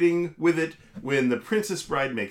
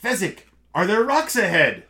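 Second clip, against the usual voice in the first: raised, louder Vizzini snapping at Fezzik; bossy boss scolding the giant; 4 semitones higher, 5 dB louder than usual. Acted. Host voicing Vizzini scolding Fezzik, louder and higher.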